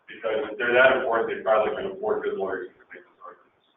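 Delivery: winded after a long stretch of talking; a little breathless; out of breath. Real, not acted. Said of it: "I'm out of breath".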